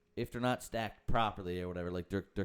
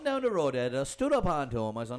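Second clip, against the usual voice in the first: imitating the caller; 5 semitones higher, 3 dB louder than usual. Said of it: "It's the inflection that gets me".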